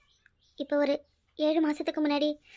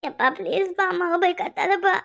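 tearful plea. Acted. Child pleading, near tears.

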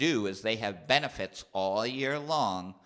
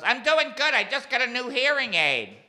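much higher, loud aunt voice; deaf aunt; 9 dB louder than usual. Retold or imitated. Deaf aunt answering her nephew, loud and high. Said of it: "She goes".

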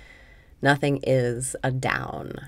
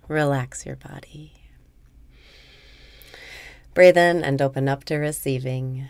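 guided meditation. Acted. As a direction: guide the listener gently into letting go. Leads a meditation.

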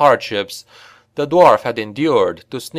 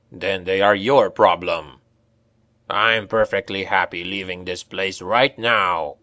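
lightly voiced, dismissive dwarf; surly dwarf; 2 semitones lower than usual. A narrator's reading. Dwarf refusing to fight the guards, surly dwarf voice.

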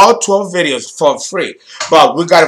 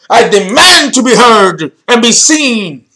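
acted insistent declaration, pitched up; demanding; 4 semitones higher, 3 dB louder than usual. Astrologer voicing cardinal fire, demanding. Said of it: "demanding energy".

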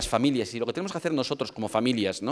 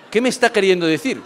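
laughing puzzlement; 7 semitones higher, 7 dB louder than usual. Retold or imitated. Puzzled by wife's gift.

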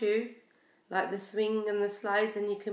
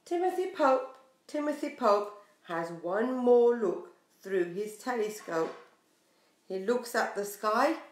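lively, sing-song picture book reading; reading to children. Acted. Teacher reading a picture book to her class, sing-song. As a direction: draw little listeners into the story.

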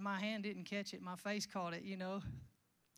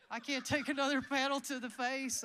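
laughing through it; 3 semitones higher, 6 dB louder than usual. Retold or imitated. Pleading with helper, laughing.

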